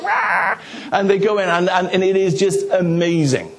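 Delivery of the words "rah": high, whooping rah; excited yell. Retold or imitated. Family member charging into the new house, high whoop. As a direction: let out a wild cheer. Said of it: "And he's like".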